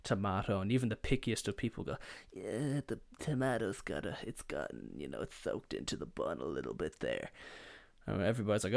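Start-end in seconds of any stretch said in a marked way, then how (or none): 2.3-7.3 low, soft, grudging mumble; fussy picky eater. Retold or imitated. Picky diner objecting to soaked-in tomato, low fussy grumble. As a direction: complain quietly, sinking well down in pitch. Pickiest people fussing over tomato.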